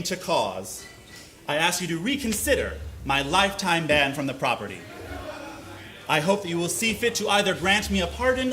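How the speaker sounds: formal letter reading. Acted. To the hotel, reading his apology letter softly and formally. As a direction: read it like a humble plea.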